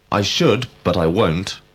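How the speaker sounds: "should" stressed for emphasis. Shown as a demonstration. Teacher giving an example of emphatic verbs, stress on "should". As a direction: lean on "should", then pause. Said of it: "used when we wish to be emphatic".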